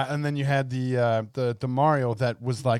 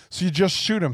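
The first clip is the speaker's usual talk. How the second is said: Seth MacFarlane voice; 6 semitones higher than usual. Retold or imitated. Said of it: "a Seth MacFarlane mindset".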